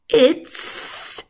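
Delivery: slow, drawn-out serpent voice; sly snake. Acted. The snake mocking Patrick for coming late, slow snake voice. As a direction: savour every word like a snake. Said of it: "he hissed".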